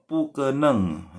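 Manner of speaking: pukeneng dengan nada panjang menurun; slow drawn-out pukeneng. Shown as a demonstration. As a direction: ucapkan pukeneng pelan, nada turun. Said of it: "pukeneng bukan pukeneng ya". (pukeneng dengan nada turun yang panjang)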